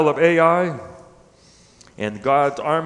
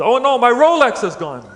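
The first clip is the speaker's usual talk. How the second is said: high, loud comic lament; hammed-up despair for a punchline; mock dismay; 6 semitones higher, 5 dB louder than usual. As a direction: wail in pretend horror. Acted punchline, man discovers lost watch.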